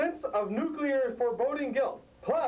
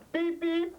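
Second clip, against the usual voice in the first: car horn; 7 semitones higher than usual. Pretend. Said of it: "I'm the car".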